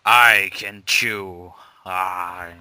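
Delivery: slow, lightly put-on French accent; thick French accent. Friend imitating the YouTuber in a mock thick French accent. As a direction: drawl each word in a mock French accent. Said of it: "thick French accent".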